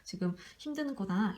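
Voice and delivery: a calm parent's understanding voice; empathetic. Shown as a demonstration. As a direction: soothe an upset child. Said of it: "이렇게 좀 공감해주는 게 좋아요".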